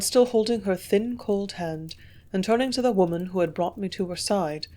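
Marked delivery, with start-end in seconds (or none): none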